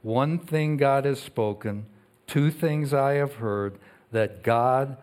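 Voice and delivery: measured, slow reading of the psalm; scripture reading. Acted. Pastor reading Psalm sixty-two to the congregation, measured and solemn. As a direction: read each line like a proclamation.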